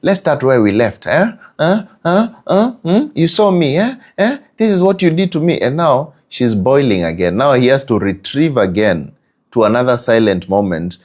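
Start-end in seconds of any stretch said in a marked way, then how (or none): 0.0-5.6 high, fast accusing voice; accusing wife. Retold or imitated. Wife reopening the old fight, high and fast. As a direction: fire the old grievances back at him. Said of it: "like you're renewing a contract".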